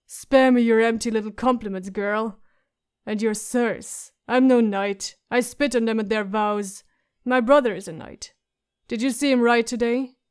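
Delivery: lightly voiced rough soldier, a touch of a snarl; a hint of a scornful sellsword sneering; snarling hound. Hound sneering at the girl's compliments, mild snarl. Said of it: "Sandor Clegane snarled at her".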